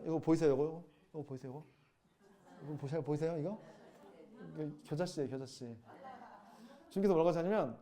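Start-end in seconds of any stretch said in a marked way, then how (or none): none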